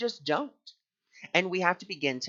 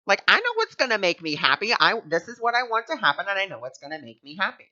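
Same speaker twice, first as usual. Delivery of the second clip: higher, louder, dismissive scoff; scoffing disbelief; 4 semitones higher, 3 dB louder than usual. Retold or imitated. Reader scoffing at the lesson, dismissive and louder. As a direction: brush it off like it's nonsense. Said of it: "I remember when I read that and I was like".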